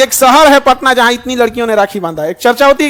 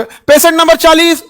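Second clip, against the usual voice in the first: higher, slower call for the next patient; mock patient call-out; 5 semitones higher, 4 dB louder than usual. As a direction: call out a number like clinic staff. अस्पताल में मरीज को पुकारना. (मरीज का number पुकारने की नकल)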